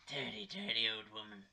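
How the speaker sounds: put-on London accent. Teasing mum about the noise, London accent. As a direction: drop the pitch into a London accent. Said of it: "doing in a London accent".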